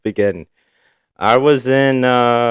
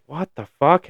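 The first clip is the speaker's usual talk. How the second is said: shocked; 9 semitones higher than usual. Retold or imitated. Retold shock at being smacked.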